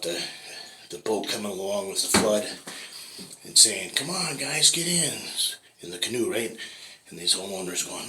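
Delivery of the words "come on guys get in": high, friendly call to climb aboard; eager rescuer. Acted. Canoe rescuer urging the homeowner to get in, high and eager. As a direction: wave him into the canoe.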